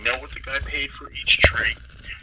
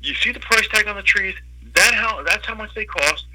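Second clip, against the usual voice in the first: raised pitch, emphatic boss laying down the law; acting out a fed-up owner putting a customer in his place; high, emphatic mock reprimand; stern retold telling-off; 8 semitones higher than usual. Owner tells off haggling customer.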